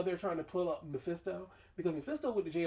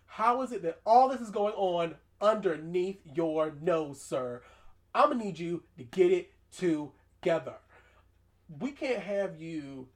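scolding; 7 dB louder, slower than usual. Acted. Scolding Doctor Strange.

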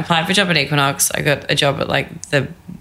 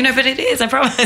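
laughing plea; 10 semitones higher than usual. Retold or imitated. Insisting to parents, laughing.

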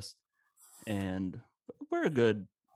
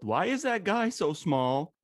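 put-on much higher, slower little kid voice; child yelling; 10 semitones higher, 4 dB louder, slower than usual. Young boy in line calling out to mom in a high kid voice. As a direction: blurt it like a curious five-year-old. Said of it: "I literally yelled".

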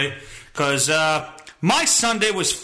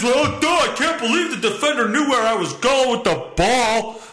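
lightly voiced dim-witted player; a hint of a dopey jock; mock dopey quarterback; 5 semitones higher than usual. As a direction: play the clueless QB, mocking. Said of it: "and wonders".

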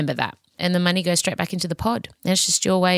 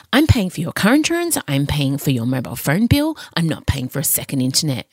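mum lecturing; 4 semitones lower than usual. Retold or imitated. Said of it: "turned into my mother".

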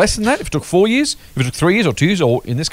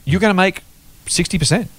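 slow, deliberate emphasis; said slowly; 7 semitones higher than usual. Shown as a demonstration. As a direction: spell it out slowly for the listener. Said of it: "let me say that slowly".

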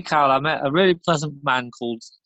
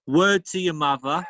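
punchline shout. Acted. Punchline delivered.

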